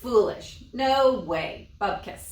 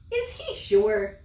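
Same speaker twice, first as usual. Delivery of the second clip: much higher, louder incredulous wife; disbelieving; 13 semitones higher, 4 dB louder than usual. Acted. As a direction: doubt every word.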